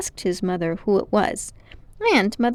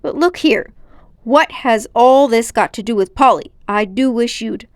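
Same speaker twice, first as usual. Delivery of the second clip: put-on impatient boy; 2 semitones higher, 7 dB louder than usual. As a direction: cut in, demanding.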